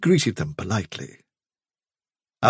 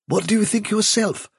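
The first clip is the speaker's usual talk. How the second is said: higher-pitched, indulgent question; understanding; 11 semitones higher than usual. A narrator's reading. Chief rabbit asking the visitor's view, understanding. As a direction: ask as if humouring a youngster. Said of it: "in an extremely understanding voice".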